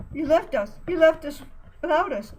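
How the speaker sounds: loud high panicked rambling. Acted. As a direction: babble it in distress. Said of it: "Buddy was rambling".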